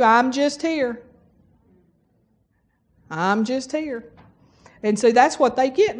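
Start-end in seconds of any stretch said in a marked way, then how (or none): 0.0-1.0 slow imitation of a resigned answer; mock listless, slow; resigned reply. Imitating a weary greeting reply. 3.1-4.1 slow, softer imitation of resignation; mock listless mumbled answer; resigned reply. Repeats the weary reply.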